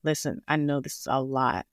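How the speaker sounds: a touch of calm, soothing nurse; gentle reassuring nurse. Retold or imitated. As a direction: reassure tired parents kindly. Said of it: "he said it so peace-, nicely".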